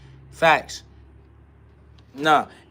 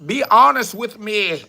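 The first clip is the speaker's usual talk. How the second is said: whiny mock complainer; 6 semitones higher, slower than usual. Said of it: "you're all like".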